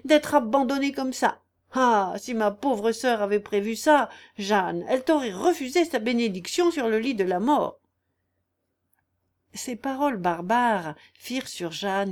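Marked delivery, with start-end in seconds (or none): 0.1-7.8 raised, aggrieved lament; mild howl. Acted. Aunt invoking dead sister against her niece, aggrieved. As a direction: wail reproachfully without a full scream. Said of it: "hurla la mégère".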